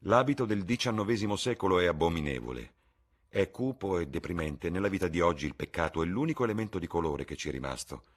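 airy upper-class charm; Lord Henry. Acted. Lord Henry holding forth. (Lord Henry appena accennato, brioso)

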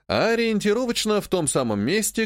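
ordinary delivery, nothing marked

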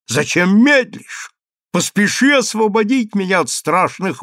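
a mock-solemn hero offering his chest. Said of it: "сказал торжественным тоном".

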